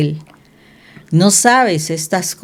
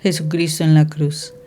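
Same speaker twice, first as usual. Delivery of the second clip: prayer; 2 semitones lower than usual. Acted. Preacher leading the congregation in prayer, hushed and humble. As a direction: pray humbly to the Father.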